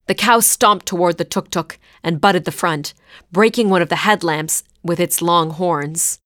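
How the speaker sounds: usual speaking voice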